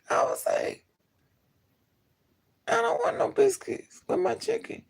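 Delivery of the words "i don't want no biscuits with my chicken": squeaky high-pitched protest; high exasperated squeal. Retold or imitated. Telling the cashier again, no biscuits, in a high exasperated whine. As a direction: whine it high like you're fed up.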